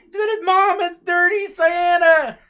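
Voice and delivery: very high, loud, slow yell; a kid shouting back at her mom; little girl yelling back to her mother; child shouting. Retold or imitated.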